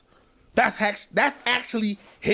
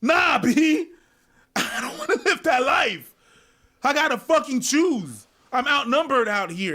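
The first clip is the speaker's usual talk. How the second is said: defiant younger self; 6 semitones higher than usual. Acted. Acting out his stubborn younger self.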